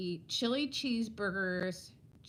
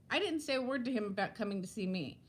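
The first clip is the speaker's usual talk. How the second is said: breathless, talking fast; running out of air mid-story; out of breath; faster than usual. Real, not acted. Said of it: "I gotta catch my breath".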